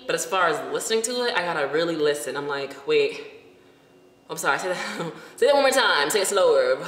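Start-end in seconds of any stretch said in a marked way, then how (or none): 2.9-6.8 flustered plea. Retold or imitated. To the yelling beach guy, a laughing plea. Begging fast Spanish speaker.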